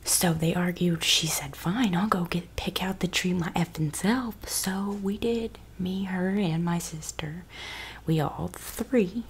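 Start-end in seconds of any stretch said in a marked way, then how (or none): 1.0-9.2 breathy ASMR whisper. Acted. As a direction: whisper close to the mic.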